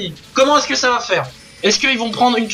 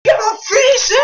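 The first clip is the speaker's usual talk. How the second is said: high, loud yell repeated; 13 semitones higher, 3 dB louder than usual. Retold or imitated. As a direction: urge them loudly to finish. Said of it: "j'arrêtais pas d'hurler".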